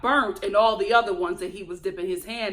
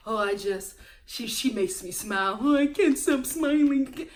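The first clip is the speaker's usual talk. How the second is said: lightly put-on lovestruck man; mock smitten date. Host mimicking a man gushing about his date, mildly overdone. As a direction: imitate a gushing suitor. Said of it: "It's too much, guys ... He lays it on thick".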